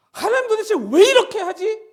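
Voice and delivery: high loud mock complaint to God; puzzled believer. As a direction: voice a baffled grumbler, slowly. (하나님께 투덜대는 신자 흉내)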